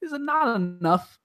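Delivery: a hint of Edward's accent, softly pleading. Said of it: "awesome accent that he has the whole movie".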